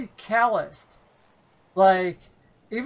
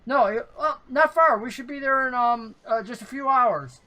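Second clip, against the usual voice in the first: higher, fumbling halfling voice; stammer, caught saying too much; flustered halfling; 4 semitones higher than usual. Acted. Halfling covering up after the bugbear snaps, higher. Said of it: "The halfling goes".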